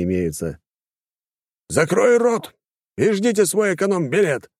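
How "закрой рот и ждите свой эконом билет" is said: rude man barking at the queue, raised and higher; barked order. A narrator's reading. Arrogant man barking at woman in queue, angry. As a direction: snap it like a furious passenger. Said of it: "рявкнул мужчина".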